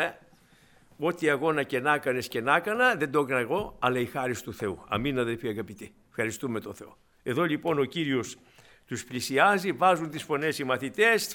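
normal talking voice

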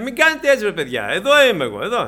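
loud, high, laughing reassurance; cheerful reassurance. Acted. Preacher imagining Jesus telling mourners he is here, cheerfully laughing. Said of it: "αντί να χαμογελάς".

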